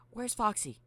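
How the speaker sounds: high, loud searching call; high character voice, urgent question. Acted. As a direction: call out very high for a missing friend. Mangle asking robots for Foxy.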